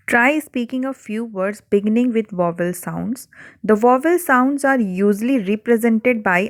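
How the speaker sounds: slow, deliberate textbook reading; slow reading aloud. Acted. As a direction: read each word out slowly for the class.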